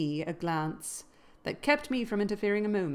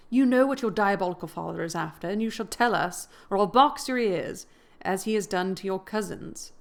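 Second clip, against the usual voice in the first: angry threat; 5 dB louder than usual. Acted. Nelly threatens Linton.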